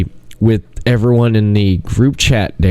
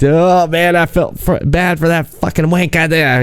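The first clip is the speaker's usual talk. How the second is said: imitated English accent, higher pitch; 7 semitones higher than usual. Friend dying laughing at Blind Date, mock English accent. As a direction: mimic an amused Englishman, pitched up. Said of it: "English accent".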